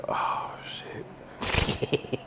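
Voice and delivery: hushed alarmed whisper; a breathy secret uh-oh between friends; whispered oh shit. Retold or imitated. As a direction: whisper it so mama can't hear. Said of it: "look at each other immediately like".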